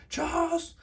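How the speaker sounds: strained, high-pitched villain voice; Juggernaut. Acted. Villain screaming at Charles, high strained mock yell. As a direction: put on a supervillain screaming at a rival, without real volume. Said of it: "That'd be Juggernaut voice".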